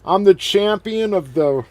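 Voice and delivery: high, loud mock promo shout; halting, hollered wrestler boast; Sid's yelling. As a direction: yell it haltingly, stretching the words. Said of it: "he just kept yelling".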